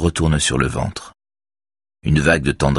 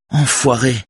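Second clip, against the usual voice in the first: shouted, higher; shouted insult; 9 semitones higher than usual. A narrator's reading. Robert confronting his brother, shouting the insult. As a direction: throw the insult at him, outraged. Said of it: "crie Robert".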